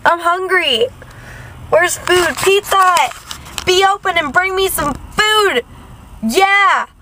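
high, playful hungry demands, "Pizza Hut" drawn out slowly; hungry whine. Acted. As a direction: call out for food like a starving kid.

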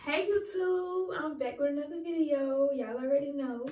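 talking while chewing gum. Real, not acted. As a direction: gum in the mouth. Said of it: "Sorry, I have gum in my mouth".

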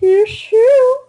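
squawky cartoon duck voice. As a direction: quack the words like a duck. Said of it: "Are you the duck voice?".

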